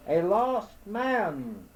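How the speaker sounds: slow, high calling shout. A narrator's reading. Lost man calling out again near the voice, high. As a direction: call out again into the dark. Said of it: "shouted again".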